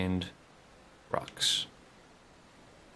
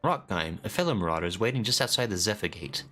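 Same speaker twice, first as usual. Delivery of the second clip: lightly voiced hearty trainer; 3 semitones higher than usual. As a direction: boom it out like a friendly axe coach. Reads trainer NPC lines.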